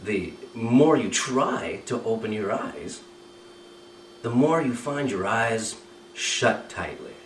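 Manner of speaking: slow, even hypnotist delivery; hypnotic suggestion. Shown as a demonstration. Hypnotist on stage speaking to a volunteer with closed eyes, slow and steady. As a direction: lay the suggestion down slowly and steadily. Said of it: "I would say something like this".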